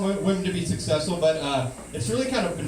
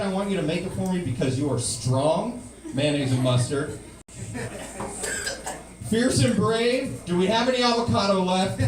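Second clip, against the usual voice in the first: fake empowering; 5 semitones higher than usual. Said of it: "I said".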